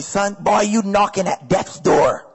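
imitating mom's Bajan accent, slowing down. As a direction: do a Bajan mother's warning, drawn out. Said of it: "That was a Bajan accent".

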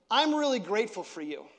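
to everyone. Shown as a demonstration. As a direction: thank the entire congregation at once. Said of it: "You know by how I said it".

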